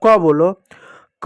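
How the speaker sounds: क held long on its vowel; drawn-out sound. Shown as a demonstration. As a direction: stretch क into a long "kawww". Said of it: "लंबा उच्चारण करो".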